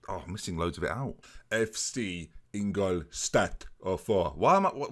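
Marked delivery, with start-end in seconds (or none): 1.5-4.3 slow put-on German accent on F C Ingolstadt oh four; over-careful German accent; mock German accent. Shown as a demonstration. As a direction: announce the club name in a hammed-up German accent. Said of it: "what accent is that?".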